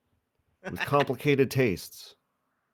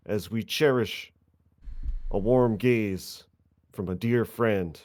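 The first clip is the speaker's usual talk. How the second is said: impassioned courtroom speech. Acted. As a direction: plead to the court with mock gravity.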